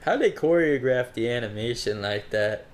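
put-on Jamaican voice; light Jamaican lilt; Jamaican accent. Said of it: "Were you talking like that before?".

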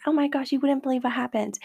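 a touch of gushing excitement; mildly excited friend sharing gossip; mock energetic excitement. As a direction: lightly act out bursting with news. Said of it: "so energetic and be like".

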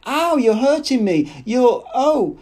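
high, loud cry of pain; sharp, startled, high-pitched complaint; pained protest. A narrator's reading. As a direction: yelp in alarm at being hurt. Woman gripped roughly, in pain.

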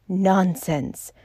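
ordinary delivery

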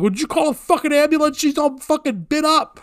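high, rapid indignant demand; acted-out screamed demand; retold screaming. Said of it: "we're, like, screaming with the cops".

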